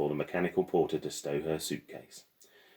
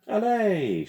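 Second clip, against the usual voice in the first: sharp command; 7 dB louder than usual. Acted. Governess hurries Lily to gate.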